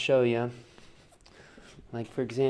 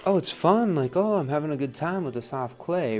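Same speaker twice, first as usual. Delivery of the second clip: higher, louder burst of acted delight; mock enthusiasm; 5 semitones higher, 5 dB louder than usual. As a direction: play up the fun, pitch jumping up at first. Acts out his feeling about clay.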